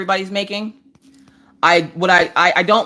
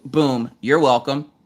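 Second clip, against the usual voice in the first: slow, smug boom you're welcome; smug sign-off; 4 semitones lower, slower than usual. Shown as a demonstration. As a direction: drop it like a mic. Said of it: "will end up with".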